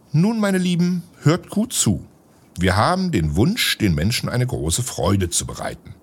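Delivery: a wise magician urging everyone to believe; lightly voiced wizard, encouraging; kindly wizard. Wizard addresses the figures.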